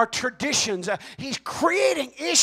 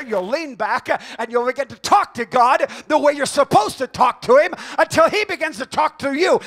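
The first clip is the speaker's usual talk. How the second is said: stern, rising to loud commands; voice of God; 3 semitones higher, 8 dB louder than usual. Retold or imitated. God scolding the preacher, booming commands. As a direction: order him into the chair, booming.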